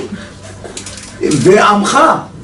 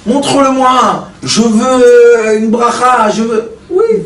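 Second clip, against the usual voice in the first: mock demanding believer; 4 semitones higher, slower than usual. Mocking people who demand blessings.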